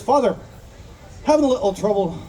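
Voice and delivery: amateur attempt at Irish; terrible Irish accent. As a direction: have a poor go at an Irish accent. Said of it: "that was a terrible Irish accent".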